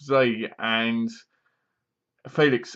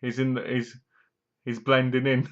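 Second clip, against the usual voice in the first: joking pun. Retold or imitated. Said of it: "what she should have said was".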